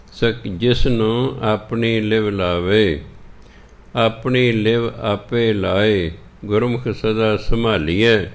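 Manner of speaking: measured, drawn-out recital of Gurbani; slow scripture recitation. Acted. Teacher recites the shabad for the sangat, slow and measured. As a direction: recite each line slowly and devoutly.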